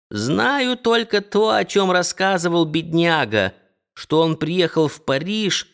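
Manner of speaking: a hint of a trembling old hostess; old landlady. Old landlady voiced in story.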